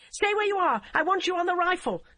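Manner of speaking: high, loud commanding shout; shouted order. A narrator's reading. DCI orders the constable to stay, high loud shout. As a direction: bark the order. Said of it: "Emily shouted".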